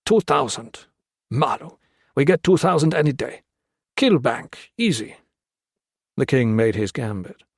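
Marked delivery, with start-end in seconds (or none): 0.1-5.2 high, dismissive broken English; scoffing guerrilla. Acted. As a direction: wave off the offer as too little.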